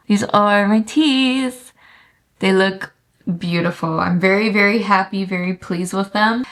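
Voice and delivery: talking around a retainer; wearing a retainer. Real, not acted. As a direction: speak with a retainer in your mouth. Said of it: "I have my retainer in".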